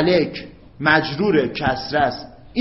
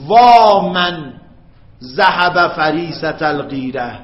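very slow, loud وا then a recited phrase; drawn-out lament; 4 dB louder, slower than usual. Shown as a demonstration. Teacher acting a mourner at a gathering, slow lament. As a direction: mourn the fallen one with a long cry. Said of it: "شما بگید".

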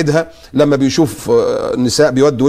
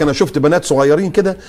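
mocking woman's lament; 6 semitones higher than usual. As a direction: parody her fake pity. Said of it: "طالعة بتقول لك".

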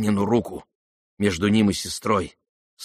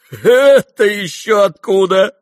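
laughing; 11 semitones higher, 10 dB louder, slower than usual. A narrator's reading. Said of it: "засмеялся Рогожин".

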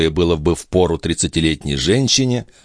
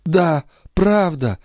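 high, slow, mock-despairing girlish sigh; feigned despair sigh; 12 semitones higher, slower than usual. Maid faking despair before the duke, slow high sigh. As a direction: fake a little despair. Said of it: "изображая отчаяние, вздохнула Николь".

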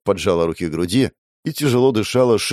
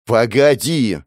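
a touch louder call; he raises his voice to stop him; raised voice; 4 semitones higher, 4 dB louder, much slower than usual. A narrator's reading. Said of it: "повысил он голос". (повышенный голос)

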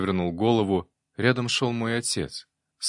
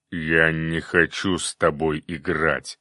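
slow, low growl from a fire demon; 4 semitones lower, slower than usual. A narrator's reading. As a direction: growl it out like a sulking beast. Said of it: "прорычал демон огня".

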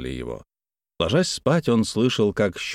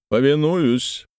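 gallant exclamation; 5 semitones higher, slower than usual. Acted. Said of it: "воскликнул".

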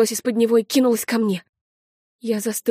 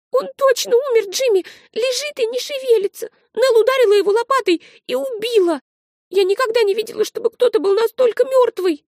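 put-on high, louder child's voice, insistent; a small girl insisting in agitation; high girl's voice, insistent; agitated little girl; 13 semitones higher, 4 dB louder than usual. Little sister insists excitedly.

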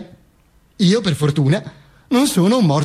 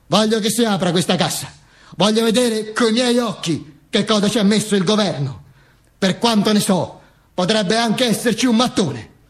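higher, mildly indignant wife; lightly voiced wife; 4 semitones higher than usual. Widow demanding the crate be opened, higher insistent voice. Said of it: "mi disse mia moglie".

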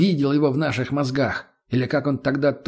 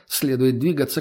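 usual speaking voice

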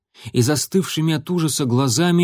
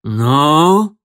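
loud, stretched threat; menacing drawn-out; 3 semitones higher, 7 dB louder than usual. Acted. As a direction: press him for the answer. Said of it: "угрожающе протянул он".

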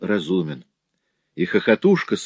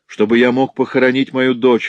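sobbing plea; 2 semitones higher than usual. Acted. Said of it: "прерывающимся от рыданий голосом".

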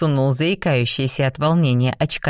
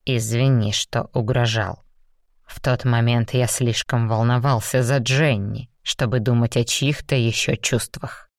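lower, restrained demon; a lightly lowered stern demon; 4 semitones lower than usual. Acted. Raum apologises. (сдержанный низкий голос демона)

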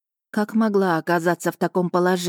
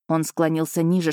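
usual speaking voice

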